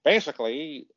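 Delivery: low-pitched send-up of a long-winded friend; imitating Alfred. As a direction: lightly parody your co-host, low and ponderous. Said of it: "this is Alfred from a parallel universe".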